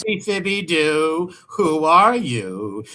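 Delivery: slow drawn-out teasing call; slow playful sing-song jab; mock cartoon taunt. Real, not acted. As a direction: stretch it out like a cartoon villain reveal. Teasing with Scooby-Doo name.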